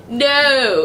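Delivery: mock Australian vowel on "No"; Aussie-accented "No", stretched. Shown as a demonstration. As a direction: imitate a drawn-out Aussie "No". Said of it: "it's like, no".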